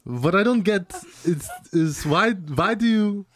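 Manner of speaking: lightly put-on broken German English; a touch of mock German; German accent. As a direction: imitate a puzzled German student. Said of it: "his broken English was, like, my favorite accent".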